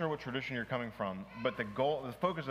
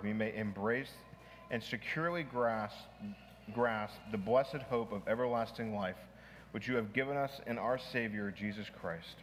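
prayer reading. Acted. Pastor reads a prayer aloud to the class, solemn prayer reading. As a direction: lift the opening and read it reverently, slowing as you go.

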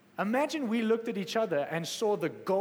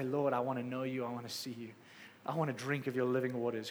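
hushed, intimate prayer; earnest prayer; 5 semitones lower than usual. Acted. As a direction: pray it simply and sincerely. Voices a prayer to God.

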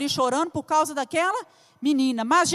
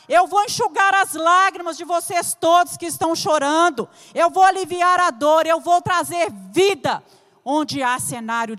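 fiery preaching. Acted. Pastor rallies the congregation against despair, full preaching force. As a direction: preach it to the back row, building with each line.

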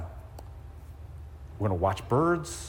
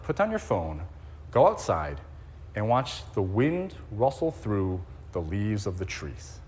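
quoted gently; 4 semitones lower, 4 dB quieter, slower than usual. Retold or imitated. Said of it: "He wrote".

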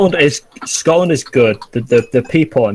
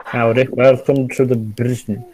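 slow, put-on American cowboy accent; gruff, depressed cowboy. Host welcoming visitors to Britain, gruff mock-American accent. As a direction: attempt American like a gruff, depressed old man. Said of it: "it's like a gruff, depressed old man".

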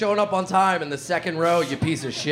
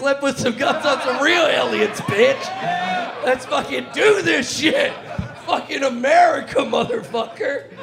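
frat bro shout; 5 semitones higher than usual. Acted. Hyped patriotic bro rant.

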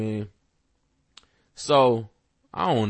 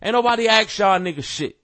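heated telling-off; 5 semitones higher than usual. Retold or imitated. Rapper telling a critic to get out, heated. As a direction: snap back hard at a nobody rapper. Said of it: "jumping up saying something like".

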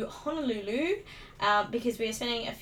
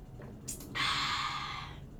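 sip and sigh; 8 dB quieter than usual. Real, not acted. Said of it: "Love a bit of tea".

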